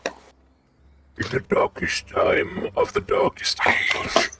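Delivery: doom-laden movie trailer narrator; alarmist doom warning. Retold or imitated. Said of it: "you sound like Doomsayer".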